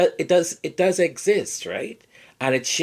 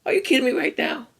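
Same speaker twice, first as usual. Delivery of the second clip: outraged disbelief; 11 semitones higher, faster than usual. Retold or imitated. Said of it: "I'm like".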